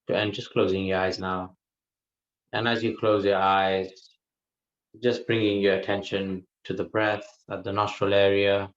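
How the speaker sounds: calm, even delivery with long pauses; guided meditation. Real, not acted. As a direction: unhurriedly guide listeners into the breath, leaving silences. Leads a guided breath meditation.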